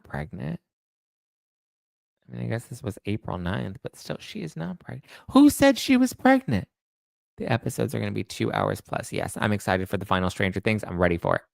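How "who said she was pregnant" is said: high, loud incredulous demand; indignant disbelief. Real, not acted. Host confronting chat about fake news, indignant. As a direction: demand who started it.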